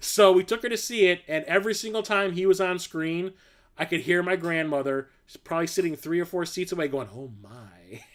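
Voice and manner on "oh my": hushed, low, deep murmur, stretched out. Retelling grandmother reacting to Arnold on screen: George Takei style "oh my". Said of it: "George Takei style".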